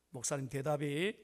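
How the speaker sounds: normal talking voice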